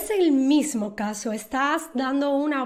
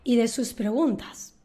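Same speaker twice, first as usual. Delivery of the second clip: whispered, fed-up sigh; exhausted inner grumble; weary aside; 4 dB quieter than usual. Shown as a demonstration. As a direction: mutter it under your breath, tired of them. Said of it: "responde a algo que ya".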